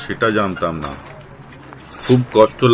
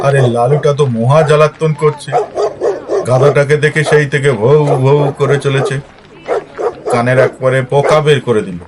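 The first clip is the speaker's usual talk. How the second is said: louder, fed up with the barking dog; annoyed raised voice; 3 semitones higher, 6 dB louder than usual. Acted. Complaining to Ramesh-da about the barking dog, loud and irritated. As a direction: raise your voice over the racket, exasperated.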